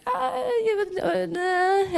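high, slow mock shrug; dismissive brush-off. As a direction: wave off the compliment lightly. Brushing off praise.

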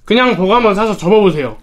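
chewing while talking; speaking between bites; mouth full of burger. Real, not acted. Seen 2: Bites burger, chews with full cheeks while talking; mouth clears by 3.3.

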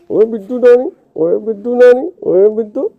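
playful calling. Real, not acted. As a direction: coax the little one to look.

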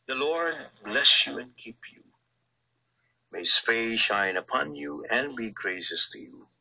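measured, solemn benediction over the listeners; priestly blessing. Acted. Priest gives closing blessing.

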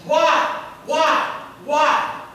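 loud anguished cries, pitched high; the husband shouting at God in the waiting room, anguished yelling. Retold or imitated. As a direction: cry out at the sky in despair. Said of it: "he just started yelling out".

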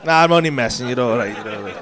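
low, softening reassurance; low and quiet, easing off; reassuring climb-down. Real, not acted. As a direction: drop the act and let him off gently. Backs off after teasing him.

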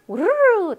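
우르르 run together in a loose roll; rolling through. Shown as a demonstration. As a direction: tumble through 우르르 without stressing any beat. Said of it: "대충 넘실넘실 지나갑니다". (우르르를 대충 굴리듯이)

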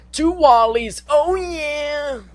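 high, loud gleeful shout; excited cheer. Real, not acted. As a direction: celebrate the win. Gamer celebrates double score.

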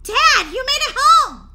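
high, loud, slow welcome; relieved shout. Acted. Daughter greeting dad as he gets home, relieved. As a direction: cry out with relief.

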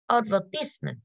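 "Advertisement" with the beat on "ver"; stress on second syllable. Shown as a demonstration. Teacher showing students where stress falls, "Advertisement" stressed on "ver". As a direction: put the weight on the "ver" of "Advertisement". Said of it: "trọng âm của chúng ta sẽ rơi vào âm số hai".

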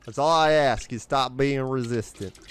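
put-on slipping into a southern accent; casual southern accent, half unintended. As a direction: let a light southern accent come out. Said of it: "pulling off a southern accent".

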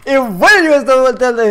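loud, slurred rush of an intro; garbled speech. Real, not acted. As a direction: tumble over the words unintelligibly. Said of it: "habla bien, por favor". (hablar atropellado, sin vocalizar)

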